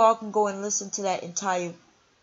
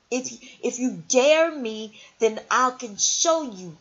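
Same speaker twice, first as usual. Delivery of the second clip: louder, slow dare; 4 semitones higher, 4 dB louder than usual. Real, not acted. Daring the rival vlogger.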